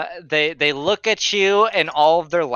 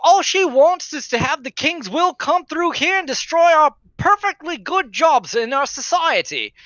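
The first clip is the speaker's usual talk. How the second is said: put-on grumbling old guard; 8 semitones higher than usual. GM plays a bitter guard ranting about Manistrad, high ranting. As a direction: rant about the good old days.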